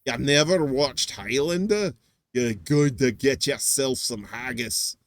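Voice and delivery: badly faked Scottish brogue; horrible Scottish accent. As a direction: attempt a clumsy Scottish accent. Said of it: "that was pretty horrible".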